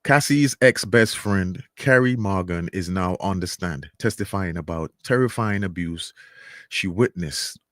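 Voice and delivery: measured read-aloud from an article; news report read-out. Acted. Vlogger reading a newspaper report to viewers, measured read-out. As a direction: read it out deliberately, phrase by phrase with pauses.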